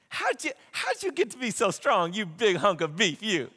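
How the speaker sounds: mock sweet-talk, buttering up a lover; playfully hammed-up coaxing; coaxing flirt. Delilah sweet-talks Samson for secret.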